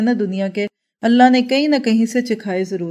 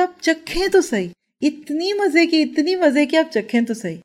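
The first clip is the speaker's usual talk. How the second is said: higher-pitched, fond urging, imitating a friend; affectionate coaxing; 7 semitones higher than usual. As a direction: coax lovingly, lingering on the praise. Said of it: "اتنے پیار سے کہا". (پیار بھرا اصرار)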